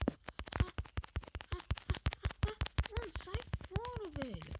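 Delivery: very high panicked screaming. Real, not acted. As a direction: shriek in panic. Panic attacked in game.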